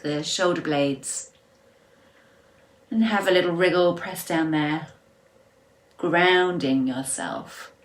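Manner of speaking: unhurried guiding voice with long pauses; guided relaxation. Real, not acted.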